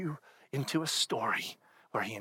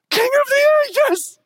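booming, much higher hammed-up praise; mock grand worship; 13 dB louder than usual. Pastor mocking his own prayer, booming overblown praise. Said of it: "my response ends up just being like".

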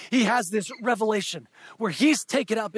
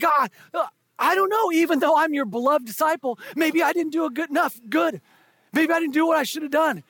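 lightly voiced, higher and nervous disciple; a hint of an insecure John, pitched up; anxious John; 6 semitones higher than usual. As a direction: fumble it out like a worried disciple. John voiced, unsure before Jesus.

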